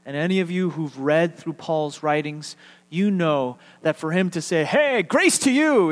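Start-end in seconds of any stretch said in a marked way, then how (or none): 4.6-5.9 higher, bright throwaway hey; breezy greeting. Retold or imitated. Paul casually tossing out a greeting, higher and lighter. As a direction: toss it out casually, pitched up.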